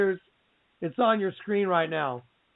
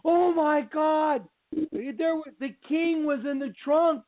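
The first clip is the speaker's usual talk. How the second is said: amazed realization; 7 semitones higher than usual. Retold or imitated. Realizing the movie clue: higher awed oh my God. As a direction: say it as it dawns on you. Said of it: "And I went".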